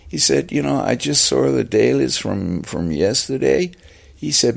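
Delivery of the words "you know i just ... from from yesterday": put-on American accent, starting high; lightly excited American director; David Fincher. Director reporting on dailies, higher-pitched American accent. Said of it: "first American accent I could, comes to mind".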